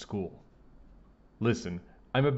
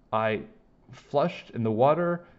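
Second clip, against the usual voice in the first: panted; 3 semitones higher, slower than usual. Acted. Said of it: "I panted".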